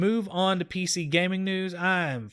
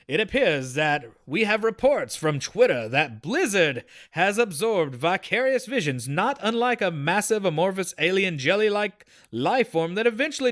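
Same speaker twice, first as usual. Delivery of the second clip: put-on old school news anchor read; lightly voiced anchorman announcing a bulletin. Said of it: "I had to go with my, my old school news anchor voice".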